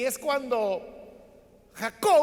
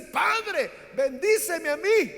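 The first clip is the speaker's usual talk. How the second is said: súplica llorosa, más aguda y más fuerte; Esaú llorando; 6 semitones higher, 6 dB louder, slower than usual. Retold or imitated. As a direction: ruega a su padre entre lágrimas. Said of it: "Y empieza a llorar". (Esaú suplica llorando a su padre la bendición)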